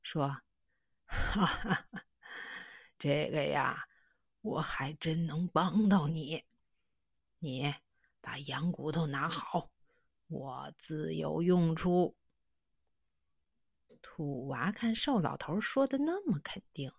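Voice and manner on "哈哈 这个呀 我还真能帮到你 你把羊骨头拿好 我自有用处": chuckle, then reassure calmly; old man promising to help the boy; lightly voiced old man. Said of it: "哈哈一笑".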